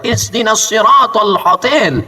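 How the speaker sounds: slow, laughing mock recitation; mock Quranic Arabic, laughing. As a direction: ham up the pilgrim's Arabic. Jamaah meniru bahasa Quran. (meniru jamaah sambil tertawa)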